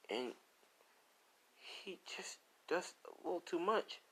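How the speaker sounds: high, halting imitation of tearful complaint; crying. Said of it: "Ray's crying".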